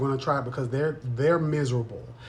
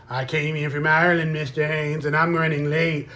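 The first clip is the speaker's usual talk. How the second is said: mocking whiny excuse; 2 semitones higher, 3 dB louder than usual. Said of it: "That's how you sound".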